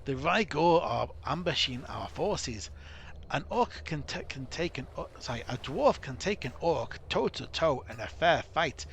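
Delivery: a gruff dwarf leader, mock accent, urgent; dwarf commander. Dwarf captain warning Gwinion of disaster, in a mock dwarf accent. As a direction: warn the hero of disaster like a worried dwarf captain.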